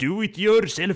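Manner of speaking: high-pitched, hammed-up exclamation; mock indignant retort. Retelling a comedy scene to a co-host, mock indignant retort. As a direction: shoot way up high, playfully imitating an outburst. Acted retort from the retold show.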